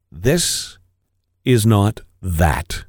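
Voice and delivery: slow, stern and deliberate. Acted. Wife correcting her husband, slow stern reply. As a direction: lay down the rule, slowly. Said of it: "she replied sternly".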